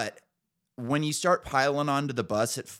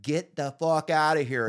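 mock yell, pitched up a little; retold yell; 5 semitones higher than usual. Telling off the homeless guy outside the house, mock yell. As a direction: imitate yourself yelling at the guy, held back. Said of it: "yelling and screaming at this guy".

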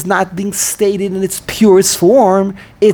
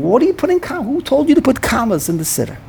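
mock indignant question; 4 semitones higher, faster than usual. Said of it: "He asked them".

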